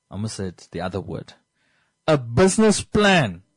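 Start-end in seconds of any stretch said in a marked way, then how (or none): 2.1-3.4 slow, emphatic, a touch emotional; slightly emotional. Real, not acted. Host pleading with Namibians about business plans, slightly emotional. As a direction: land "business plan" slowly with some feeling. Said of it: "I'm slightly emotional".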